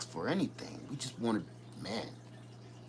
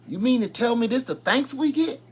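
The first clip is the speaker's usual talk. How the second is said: Gangster rapper voice; 7 semitones higher, 4 dB louder than usual. Retold or imitated. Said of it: "in the words of a rapper".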